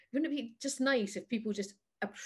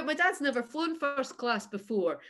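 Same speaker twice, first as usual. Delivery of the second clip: squeaky laughing reply; laughing high; 5 semitones higher, 4 dB louder than usual. Retold or imitated. Joking to the hostess about her dad's ashes, squeaky and laughing. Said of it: "I was like".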